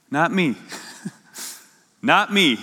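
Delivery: "Not me" set apart by long pauses; deliberate, separated "Not me"; emphatic NOT ME. Acted. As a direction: land firmly on "Not me".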